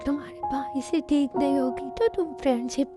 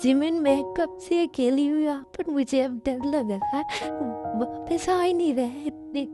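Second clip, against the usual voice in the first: alone at night, scared, speaking through sobs; crying; 3 semitones higher than usual. Acted. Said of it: "ताई, please तुम रोना बंद करो". (रोते हुए, डरी हुई धीमी आवाज़)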